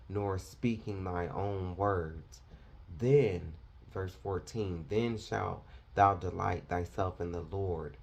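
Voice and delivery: measured, solemn reading voice; scripture reading. Acted. Preacher reading Isaiah aloud to the congregation, solemn. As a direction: read it out steadily as holy text.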